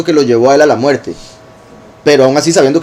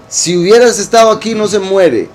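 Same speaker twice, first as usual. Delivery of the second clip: higher, accusing mock reproach; reproachful blame; 5 semitones higher than usual. Miriam reproaching Yahushua as if it were his fault. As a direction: make it sound like she blames him. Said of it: "Ahora es mi culpa que se murió".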